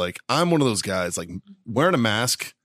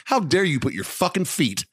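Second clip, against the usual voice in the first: higher-pitched mock outrage; retold indignation; 6 semitones higher than usual. Man retelling scolding passenger with feet in aisle, indignant. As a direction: scold her like a rude child. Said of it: "And I'm just like".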